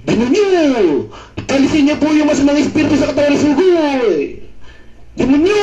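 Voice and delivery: hammed-up plea to drive out an evil spirit; mock exorcism. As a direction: cry out as if casting out a demon.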